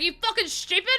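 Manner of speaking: high, loud mock outburst; unhappy mum. Mum berating daughter for walking the dog, angry high imitation. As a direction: imitate an exasperated mum losing it. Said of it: "She was so unhappy with me".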